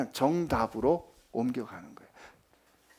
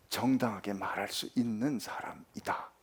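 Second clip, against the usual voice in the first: whisper; 7 semitones lower, 8 dB quieter than usual. Acted. Preacher drops to a hush.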